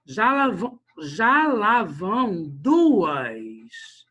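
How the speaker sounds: poetic count, "Já lá vão duas" drawn out slowly; slow, emphatic chanting of the metre; verse scansion. Shown as a demonstration. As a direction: stretch "duas" long as you scan the line. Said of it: "vamos pegar esse mesmo verso e vamos separar".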